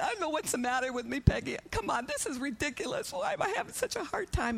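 high, fast, imitated distressed rush; pouring out her heart. Pours out her heart to her sister, retold high-pitched lament. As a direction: whine it out in mock despair. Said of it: "I just pour out my heart to her".

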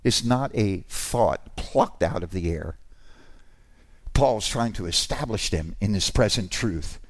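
ordinary talk, nothing marked

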